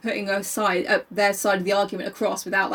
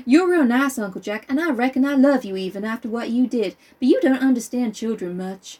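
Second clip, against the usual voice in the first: put-on child's voice; 3 semitones higher than usual. Child voice in reading.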